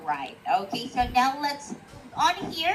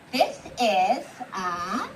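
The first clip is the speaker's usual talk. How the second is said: put-on reading to a toddler; 6 semitones lower, slower than usual. Shown as a demonstration. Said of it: "can you please say in a full sentence".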